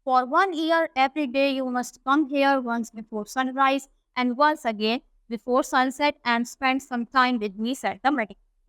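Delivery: reads the English text slowly and carefully; unhurried storybook reading; slow story reading. A narrator's reading. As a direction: read it out word by word for the class. Slow English read-aloud of story.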